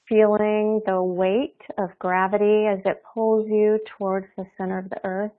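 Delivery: calm, unhurried meditation guide with long pauses; guided meditation. Real, not acted. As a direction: ease them gently into their bodies, leaving space between phrases.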